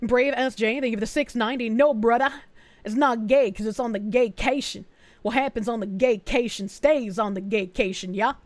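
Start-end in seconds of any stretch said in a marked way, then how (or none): 1.7-8.3 loose attempt at a rapper's accent. Streamer reading a viewer's message, uncertain rapper's accent. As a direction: lightly put on a muddled rapper's accent. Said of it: "supposed to read that in a rapper's accent".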